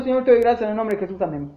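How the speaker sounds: fast, dismissive mock prayer; rushed rote prayer. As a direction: rattle it off like a habit. Mocking hurried routine prayer. (oración de rutina, dicha a toda prisa)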